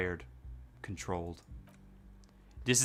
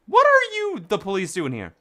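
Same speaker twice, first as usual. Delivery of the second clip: high goofy voice; 5 semitones higher, 3 dB louder than usual. Acted. Voicing the dialogue choice.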